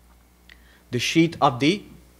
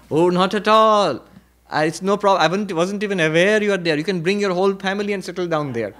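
easygoing big bull; 2 semitones higher than usual. Acted. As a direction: wave it away generously and lazily. Big bull answers mosquito.

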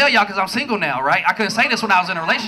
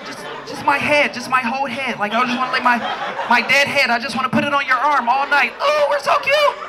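mock cuddly girlfriend. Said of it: "'Cause you think it's a good idea like this".

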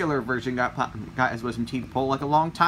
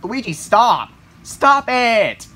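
louder, higher shout at the driver; alarmed yell; 5 semitones higher, 7 dB louder, much slower than usual. Acted. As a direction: yell at him to stop. Passenger yells at bad driver.

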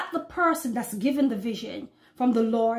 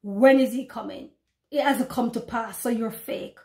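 mocking doubter. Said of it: "brothers and sisters will say".

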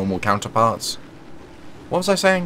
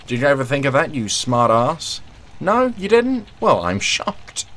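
mock shocked, slow; deadpan fake surprise; sarcastic; 5 semitones higher than usual.

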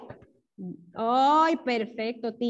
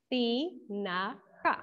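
"Tinaja" softer and very slow, with gaps between syllables; 2 semitones lower, 6 dB quieter, much slower than usual. Shown as a demonstration. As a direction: quietly sound out ti... na... ja in "Tinaja". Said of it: "las sílabas de tinaja". ("Tinaja" suave y muy lento, separando las sílabas)

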